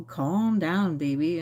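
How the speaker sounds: a hint of her dad telling her to calm down; imitating dad. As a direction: mimic dad's stroke-affected speech, lightly. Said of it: "my dad had a very specific way of talking".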